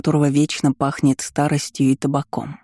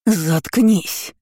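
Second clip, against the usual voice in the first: higher, harsh command; roared order; 4 semitones higher than usual. A narrator's reading. Aunt roars at the heroine to shut up, higher and harsh. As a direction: shut her up with a roar. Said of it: "взревела тётка".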